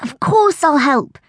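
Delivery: slow, high, smiling answer; grinning. A narrator's reading. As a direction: say it through a big grin. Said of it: "I grinned".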